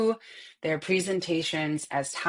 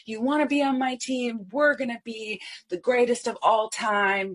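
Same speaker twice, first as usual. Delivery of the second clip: eager, higher-pitched investor pitch; passionate pitch; 5 semitones higher than usual. Shown as a demonstration. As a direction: sell it like you're all in. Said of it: "And you're passionate, you're all in".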